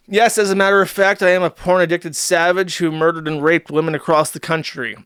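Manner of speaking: hint of a calm killer; lightly voiced polite murderer; Ted Bundy. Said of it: "It's like Ted Bundy".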